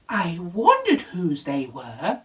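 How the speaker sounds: slow, thoughtful zebra; wondering aloud; Zebra musing. Acted. Zebra muses to Little Bear, slow and thoughtful.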